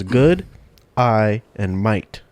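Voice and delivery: "Good eye and mate" spelled out slowly, each word apart; slow word-by-word demo. Shown as a demonstration. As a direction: break "Good eye and mate" into three slow separate words. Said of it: "Just say the word, three words".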